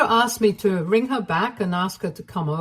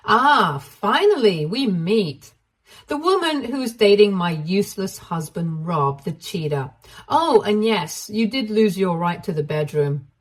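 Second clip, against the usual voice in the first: smug; 3 dB louder than usual. Acted. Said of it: "Sandra smiled at Ashley and said".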